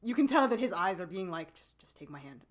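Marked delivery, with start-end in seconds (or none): 1.5-2.5 much softer and lower, barely there; hushed mock plea, lower; soft imagined plea. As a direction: say it like the eyes speak, very quiet. Silent boy's eyes voiced.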